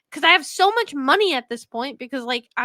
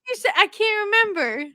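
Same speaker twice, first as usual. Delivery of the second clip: urgent pressing; 7 semitones higher, 5 dB louder, much faster than usual. Real, not acted. Demanding cohost repeat.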